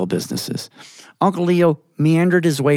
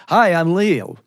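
higher New York Yiddish greeting; New York Yiddish accent; 4 semitones higher, slower than usual. Acted. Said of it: "that New York Yiddish accent".

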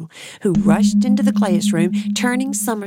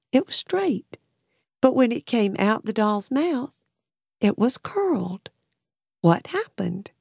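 higher, wondering prince voice; puzzled; 4 semitones higher than usual. Acted. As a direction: ask it with rising wonder. Prince puzzled by new riddle.

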